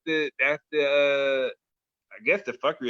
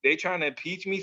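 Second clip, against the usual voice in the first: whining, pitched up excuse; mock whiny excuse; 4 semitones higher than usual. Friend mocking the president's excuse, whiny. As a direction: whine it like a spoiled kid. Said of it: "he's like".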